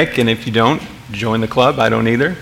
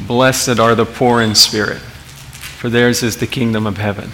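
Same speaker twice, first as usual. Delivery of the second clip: lightly voiced gentle, peaceful Jesus; a hint of a soothing storybook Jesus; nice, soothing Jesus; 3 semitones lower, 4 dB quieter than usual. Preacher quoting the popular picture of Jesus, mildly soothing. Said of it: "he sort of talks in kind of a lilting voice".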